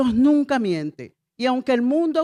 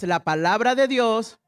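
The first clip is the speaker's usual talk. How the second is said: slow, spaced phrase for the church; slow call to repeat; slower than usual. Shown as a demonstration. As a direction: say it slowly so all can repeat. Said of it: "Diga otra vez".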